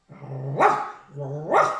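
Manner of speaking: low whining dog moan; plaintive canine wail; Scooby whimpering. A narrator's reading. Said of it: "gémit Scooby".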